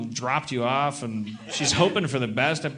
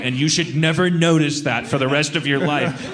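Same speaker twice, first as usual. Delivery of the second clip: firm mom approval; 5 dB louder than usual. Retold or imitated. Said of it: "my mom said".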